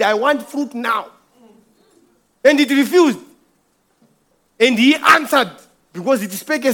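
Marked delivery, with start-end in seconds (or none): 0.0-1.1 slow, measured voice of God; God commanding the tree. Acted. God demanding fruit from the tree, slow and commanding. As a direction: say it slowly, like a command from above.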